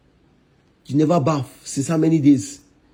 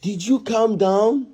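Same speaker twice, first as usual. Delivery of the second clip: slow, higher challenge, rising at the end; pointed demand; 5 semitones higher, slower than usual. Acted. Husband confronting wife over her temper, slow pointed demand. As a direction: draw the question out, demanding an answer. Repeats question in a quarrel.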